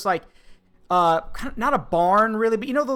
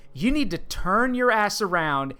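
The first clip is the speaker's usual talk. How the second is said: firm warning; 2 semitones lower, slower than usual. Retold or imitated. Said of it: "looked me dead in the eye and said".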